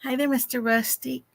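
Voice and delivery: rough, just-woke-up voice; hoarse and groggy, like just out of bed. Real, not acted. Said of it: "Oh, you sound rough".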